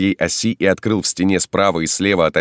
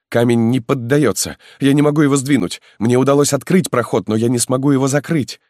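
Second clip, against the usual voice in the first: put-on higher, faster, worried young man; alarmed young peasant; 8 semitones higher, 3 dB louder than usual. Halmalo warns the marquis the stone is stuck, alarmed. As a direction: push out the bad news in a rush.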